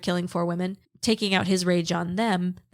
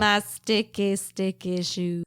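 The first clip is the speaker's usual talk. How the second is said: crackly sexy voice. Pretend. Hoarse host hamming up the sexy voice, crackly and slow. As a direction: play up the crackly voice, drawn out. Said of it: "little crackly voice".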